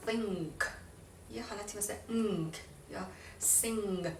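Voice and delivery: "think", "سینگ" with tongue back on the palate; ng sound. Shown as a demonstration. Teacher attempting ng for viewers, back-of-mouth nasal sound. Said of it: "اینجوری".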